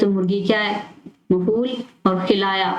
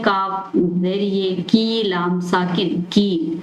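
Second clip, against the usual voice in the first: slow spelling out; much slower than usual. Shown as a demonstration. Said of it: "next है".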